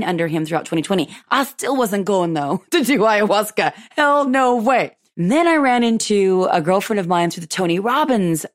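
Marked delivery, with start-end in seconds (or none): 3.9-5.0 drawn out slow and higher, hell no; firmly refuse, stretching each word; emphatic refusal. Real, not acted. Refusing ayahuasca outright, slow emphatic no way.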